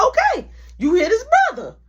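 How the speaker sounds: high loud snap back; angry retort. Retold or imitated. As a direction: shut down his complaint. Mother snapping back at attacker.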